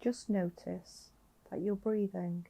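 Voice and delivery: slightly softened meditation voice with long pauses; guided meditation. Acted. Guiding a listener lying down to notice their breathing, calm meditation voice. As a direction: gently guide the listener into breath awareness, leaving space between phrases.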